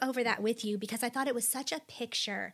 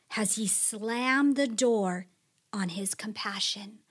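lamenting scripture reading. Acted. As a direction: ask each question like a hurting soul. Reads psalm questions expressively.

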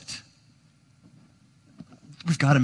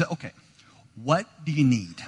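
forced calm. Retold or imitated. Dad answering his son, forcing himself to sound calm. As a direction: stay calm through clenched patience. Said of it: "trying to be calm and cool".

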